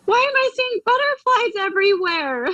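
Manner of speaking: high, bubbling questions; eager high questions tumbling out; excited questions. Retold or imitated. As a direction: ask in a rush of wonder, pitch way up.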